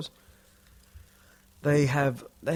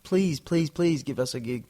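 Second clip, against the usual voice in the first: begging; 3 semitones higher than usual. Retold or imitated. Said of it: "you just feel like a dodgy".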